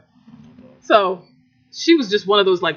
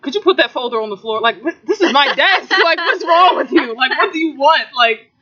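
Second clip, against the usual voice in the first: retold exasperated reply; 3 semitones higher than usual. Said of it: "Yeah, just like".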